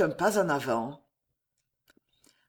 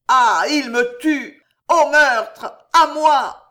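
building to a scream; 2 semitones higher, 6 dB louder than usual. Acted. The raving king calling his guards against assassins, building to screams. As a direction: panic climbing until he howls for help.

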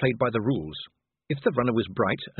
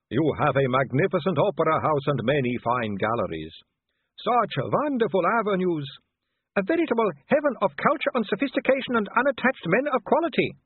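much higher, dreamy and gushing; swooning sisters; 8 semitones higher than usual. A narrator's reading. Sisters swoon over Vimes's city, high and gushing. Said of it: "threefold sigh".

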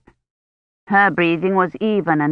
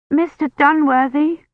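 desperate call; 8 semitones higher than usual. A narrator's reading. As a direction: call out for help from a fever dream. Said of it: "Kivrin called out desperately".

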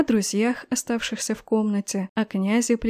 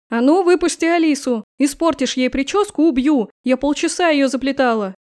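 shouted through the door, louder; loud demand; 2 semitones higher, 4 dB louder than usual. Acted. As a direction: bang on the door and yell it. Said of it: "совсем неделикатно потребовали".

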